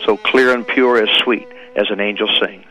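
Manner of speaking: steady storytelling poem reading; poem recitation. Acted. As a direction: recite it like a parable to an audience. Recites poem Touch of Master's Hand.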